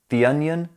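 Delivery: "The" said "thee" before "onion"; long ee in "The", linking into "onion"; "thee" before vowel. Shown as a demonstration. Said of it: "Match the correct sound to the first letter".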